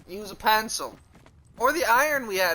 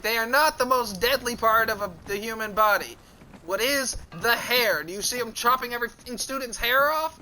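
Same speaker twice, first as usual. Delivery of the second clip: higher, emphatic retold rebuttal; indignant arguing; 4 semitones higher than usual. Arguing fingernails aren't weapons, indignant rebuttal. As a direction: argue your case in mock outrage.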